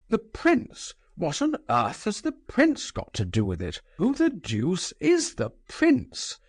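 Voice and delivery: wrathful cry. A narrator's reading. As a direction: let the anger burst out. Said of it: "cried the general, who could conceal his wrath no longer".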